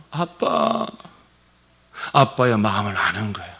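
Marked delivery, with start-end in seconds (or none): 0.1-0.9 put-on high, very slow, tearful child voice; a small child's drawn-out plea to daddy; child calling daddy. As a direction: call daddy like a crying little child. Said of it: "눈물을 흘려요".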